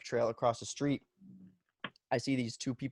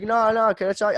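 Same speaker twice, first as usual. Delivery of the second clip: imitating neighbor; 10 semitones higher, 9 dB louder than usual. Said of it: "he's like".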